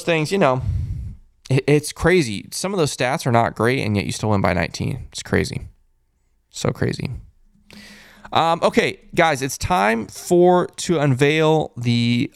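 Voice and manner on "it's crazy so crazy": breathy whisper, shaking his head; whispered disbelief. Real, not acted. Host marvels at the win, whispering. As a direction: hush it, stunned.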